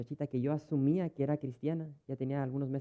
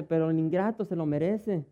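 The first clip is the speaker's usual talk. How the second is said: louder, higher, with a laugh; indignant woman; 4 semitones higher, 6 dB louder than usual. Retold or imitated. Pastor imitating the woman defending cursing her husband, louder, laughing. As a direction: scoff that he deserves it. Voices woman justifying herself.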